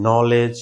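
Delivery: নলেজ said slowly starting on the n sound, no k; teacher demo, silent k. Shown as a demonstration. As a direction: model নলেজ without k. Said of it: "এরকম আরো আছে".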